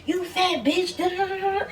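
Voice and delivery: high, soft drawn-out mock taunt; slow, mocking high jeer. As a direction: sneer it like the bullies did. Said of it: "talking shit to me like".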